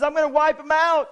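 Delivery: understated divine fury; upset God. Retold or imitated. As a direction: threaten to end it all, lightly acted. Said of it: "God was so upset with his people".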